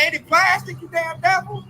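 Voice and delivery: retorting loudly to the recycling fine; mock outraged retort. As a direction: snap back at him in mock indignation. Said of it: "I'm like".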